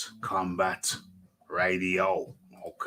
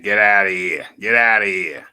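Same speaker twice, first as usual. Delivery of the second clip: loud dismissal; 9 dB louder than usual. Real, not acted. Dismissing the wrong music.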